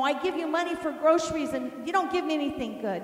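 quick mimicked grumble; sarcastic husband. Husband griping to wife about grocery money, sarcastic. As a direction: lightly act a husband's aggrieved reproach. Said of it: "he talked sarcastically to me".

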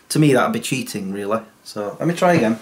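ordinary talk, nothing marked

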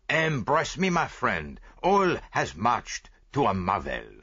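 lightly voiced Belgian detective; a hint of a French-accented Poirot; Hercule Poirot. Poirot speaks in story.

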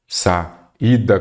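"saída" com pausa depois de sa; separado em sílabas. Shown as a demonstration. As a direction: destaque o hiato em "saída": sa... ída. Professor separa sílabas do hiato. ("saída" partido no hiato, sa-ída)

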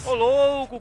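loud high cry of amazement; wow, shouted out; excited high exclamation; amazed shout. Real, not acted. Amazed at the kill.

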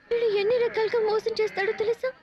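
ordinary delivery

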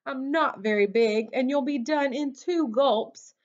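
high, pleading, stammering at the start; high-pitched anxious storybook plea; wobbly, frightened goat. A narrator's reading. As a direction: beg the troll nervously. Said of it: "Middle Billy Goat Gruff wobbled".

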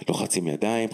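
ordinary delivery

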